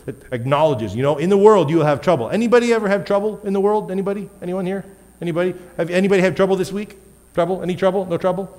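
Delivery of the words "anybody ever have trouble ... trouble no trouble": playful crowd prompting. Real, not acted. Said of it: "asking the congregation playfully".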